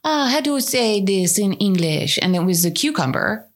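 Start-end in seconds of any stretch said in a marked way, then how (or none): 0.0-2.2 imitated faltering Spanish accent; mock Spanish accent. Woman on national television asking for a word, mock Spanish accent. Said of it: "go on national television".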